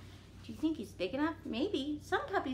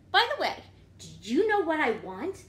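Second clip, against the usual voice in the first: louder, higher pigeon hinting; eager pigeon; 3 semitones higher, 6 dB louder than usual. Acted. Pigeon teasing the reader about his wish, eagerly. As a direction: tease the listener as the pigeon. Pigeon's lines read aloud.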